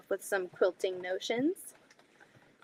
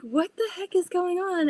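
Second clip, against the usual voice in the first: retold alarm; 8 semitones higher, 3 dB louder than usual. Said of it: "I was like".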